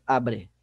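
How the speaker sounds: "abre" with stressed A and unstressed "bre"; stress on first syllable. Shown as a demonstration. Teacher contrasting strong and weak syllables, "abre" stressed on A. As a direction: hit the A of "abre", drop off on "bre". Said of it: "a sílaba tônica é o A".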